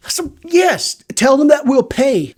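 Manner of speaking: lightly squeaky royal lady agreeing; high voiced princess. Storyteller voicing Pharaoh's daughter, high pitched.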